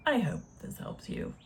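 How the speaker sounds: said softly under her breath; hushed. Real, not acted. Wrapping up for her viewers, a soft murmur. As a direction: murmur it almost to herself. Soft sign-off, then repeated laughing.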